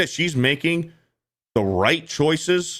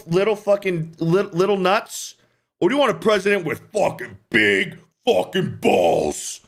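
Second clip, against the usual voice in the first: riled up; 4 semitones higher than usual. Real, not acted. Haranguing the gentlemen.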